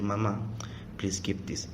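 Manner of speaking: hushed husband whispering to his wife; whispered request. Retold or imitated. A preacher voices a husband quietly handing money to his wife. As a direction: breathe it low like a secret handover.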